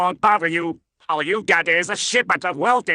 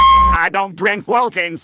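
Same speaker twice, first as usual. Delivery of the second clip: loud, stubborn refusal; defiant shout; 3 semitones higher, 6 dB louder than usual. Acted. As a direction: shout the no right back at him.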